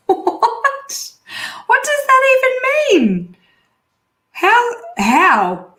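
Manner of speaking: high, laughing disbelief; incredulous. Real, not acted. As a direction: squeal in baffled disbelief. Baffled by LinkedIn post limit.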